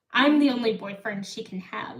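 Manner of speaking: ordinary talk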